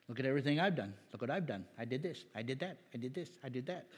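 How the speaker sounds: soft, smug mock boasting; quietly lampoon the self-satisfied doer; mocking boastful merit monger. Preacher quoting merit mongers, soft mock boasting. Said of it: "One commentator said, merit mongers".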